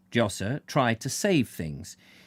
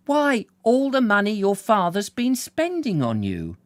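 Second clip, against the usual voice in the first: higher, reproving matron's voice; reproachful mother; 9 semitones higher, 4 dB louder than usual. Acted. Mother reproaches her son over the money, reproving. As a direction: scold him like a disappointed mother.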